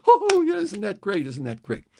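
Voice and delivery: high, eager start that settles; excited young guys. Retold or imitated. Young guys cheering the radio bit, excited. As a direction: gush like a thrilled teenager. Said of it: "all of us guys really got excited".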